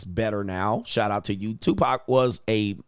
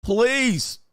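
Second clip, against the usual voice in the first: "Please" pitched way up in disbelief; high exasperated please; 10 semitones higher than usual. Real, not acted. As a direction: plead "Please" high and drawn out. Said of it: "please repeated".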